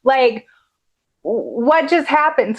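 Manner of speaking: mildly stunned, voice jumping up; startled epiphany. Retold or imitated. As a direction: act out a sudden, puzzled realization. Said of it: "epiphany, like".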